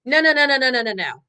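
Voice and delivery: loud, rapid string of no's, imitating a balking owner; hammed-up protest, pushing the idea away; mock panicked refusal. Owner balking at the account idea, loud mock protest.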